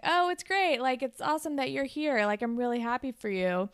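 lightly acted, strained friendliness; awkward politeness. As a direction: put on a slightly too-keen politeness. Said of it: "a really awkward, kind of tense conversation".

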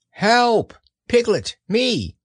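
high, small frightened voice; a timid little pig crying for help; Piglet voice. A narrator's reading. Piglet writes a desperate note.

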